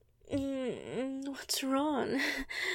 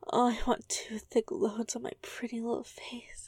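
whispering. Acted. Whispered dirty talk.

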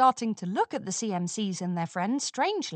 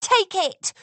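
high, louder cry; 9 semitones higher, 5 dB louder than usual. A narrator's reading. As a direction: fling the words at her. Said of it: "Scootaloo cried".

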